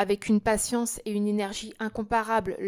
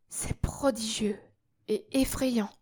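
awed whisper; 4 dB quieter than usual. Acted. Marquisette awed and frightened.

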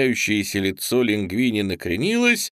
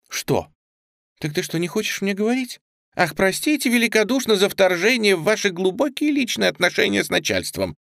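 sharp sarcastic outburst, pitched higher; flaring up; 8 semitones higher than usual. A narrator's reading. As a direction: snap it out, hurt and sarcastic. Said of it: "вспыхнув, произнесла Калет".

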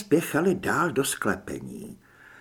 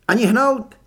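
sharp command, higher and louder; Julie's higher, louder cry of command; cried out; 8 semitones higher, 7 dB louder than usual. A narrator's reading. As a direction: call out a raised-voice order to freeze. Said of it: "vykřikla Julie".

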